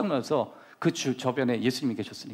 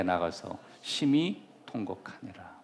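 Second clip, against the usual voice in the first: slow scripture reading; 6 semitones lower, slower than usual. Acted. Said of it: "다 같이 한번 읽어보겠습니다".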